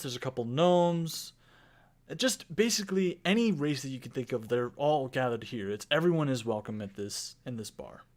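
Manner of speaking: game master painting the world for the players; storyteller voice opening the campaign; scene-setting narration. Acted. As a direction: set the stage like a storyteller.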